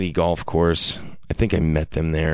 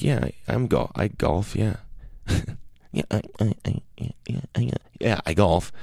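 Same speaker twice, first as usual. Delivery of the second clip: flustered lie; 3 semitones higher, 4 dB quieter than usual. Retold or imitated. Nervous stammer, laughing.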